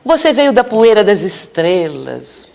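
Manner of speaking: slow, dreamy, a touch lofty; lightly imitated poet getting carried away; ethereal poet. Poet counselor speaking loftily to a confused spirit, slow and dreamy. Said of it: "começou a falar coisas tão etéreas".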